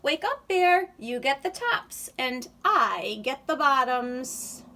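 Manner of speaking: loud call to wake him. Acted. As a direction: shout across the field. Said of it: "Hare called out".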